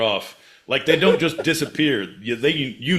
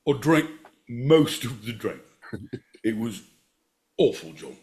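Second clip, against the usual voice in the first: put-on Scottish accent. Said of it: "Scottish, my boy Pete".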